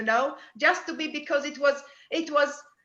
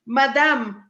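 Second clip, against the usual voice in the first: lightly imitated French accent. Medium passing on what she heard, light French accent. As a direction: echo a French voice saying "Madame". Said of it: "like in, in this French accent".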